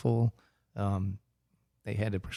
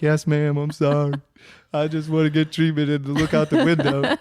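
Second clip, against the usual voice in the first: sheepish laughing apology; 5 semitones higher, 7 dB louder than usual. Retold or imitated. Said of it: "And I was like".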